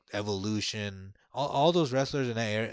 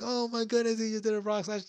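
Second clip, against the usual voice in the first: put-on amazed kids; 13 semitones higher than usual. Kids watching the cage frog splash, high amazed exclaim. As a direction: gasp it out in wonder. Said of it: "we're like".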